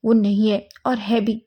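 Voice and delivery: loud, firm rebuke; furious mother sends Wing away; angry mother. Acted. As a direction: shut the door on him with your voice. Mother angrily turns Wing away.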